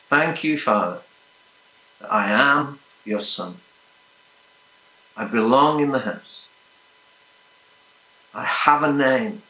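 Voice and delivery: measured prayer in short, separate phrases; declarative prayer. Acted. Preacher leading the congregation in a prayer to the Father, measured and declarative. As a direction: lead a prayer aloud, leaving room to repeat.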